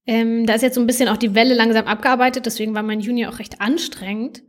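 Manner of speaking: talking while eating chocolate; words round a bite of chocolate; mouth full. Real, not acted. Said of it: "ich esse hier nebenbei ein bisschen Schokolade".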